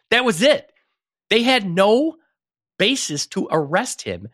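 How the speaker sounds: rising indignation; outraged. Real, not acted. Outraged about the arrest.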